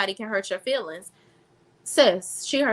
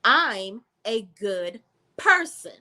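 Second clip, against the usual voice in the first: mimicking Sutton. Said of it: "And Sutton says".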